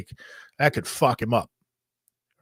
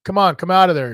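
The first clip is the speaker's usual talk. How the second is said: coaxing through door; 4 semitones higher, 5 dB louder than usual. Retold or imitated. Calling brother out of bathroom.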